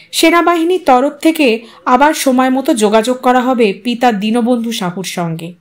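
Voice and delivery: ordinary delivery, nothing marked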